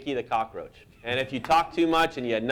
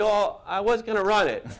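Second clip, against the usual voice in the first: high, meek retold objection; sheepish protest; 7 semitones higher than usual. Cartoonist pleading his case to an offended colleague, sheepish. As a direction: squirm upward as if asking permission.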